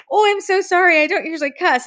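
imitating a flustered, shocked apology; mock shocked apology. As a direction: act her shock at her own swearing. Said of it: "she looked so shocked".

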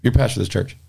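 a light take on Donnie, stunned; lightly voiced Donnie in disbelief; imitating Donnie. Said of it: "this is how it sounds".

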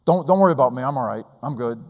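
a frightened man insisting he's fine; scared old man. Retold or imitated. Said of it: "his lip was quivering, and he was getting a little scared".

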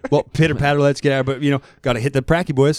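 light Canadian hockey-bro banter; Letterkenny talk. Retold or imitated. Imitating Letterkenny characters with a friend, light bro banter. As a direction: hype the boys Letterkenny style. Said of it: "talking like those two kids".

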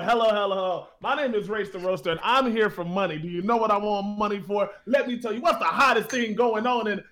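lightly voiced slick hustler pitch; fast-talking hustler. Bard to the noble, a lightly voiced fast-talking pitch. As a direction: rattle off the sales spiel. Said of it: "your fast talking is messing with my head".

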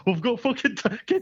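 high panicky pilot voice. Retold or imitated. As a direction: squeak it out in a panic. Scared pilot quoted.

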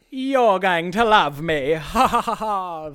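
loud, slow, drawn-out crowing with a laugh; flirtatious. Retold or imitated. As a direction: gloat playfully, stretching the words out. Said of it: "the mentalist is like".

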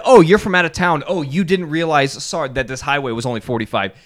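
wife's husband voices the ideal cop; polite cop. Retold or imitated. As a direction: play a hint of a kindly officer letting it slide. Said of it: "the cop could have said".

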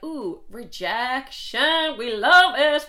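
ironic delight, rising high and loud on the second line; sarcastic cheer. Retold or imitated. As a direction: sell the rejection like great news. Mock cheer at being rejected.

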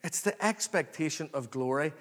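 ordinary delivery

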